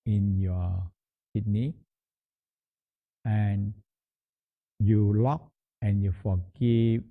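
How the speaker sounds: guided meditation. Acted. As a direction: lead them gently through it, pausing between phrases. Leads a kidney smiling meditation.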